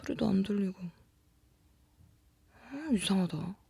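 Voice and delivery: hushed, near-whispered wondering; puzzled murmur to self. Acted. Woman alone at night hearing odd sounds, hushed puzzlement. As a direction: think aloud very softly, uneasy.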